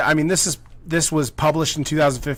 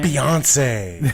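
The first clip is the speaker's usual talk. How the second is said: shout. Pretend. Calling out one-name stars.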